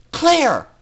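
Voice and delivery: high, loud commanding cry; scream. A narrator's reading. Scootaloo leading the rebellion, screamed command. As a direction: bark the order to the fillies. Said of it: "Scootaloo screamed".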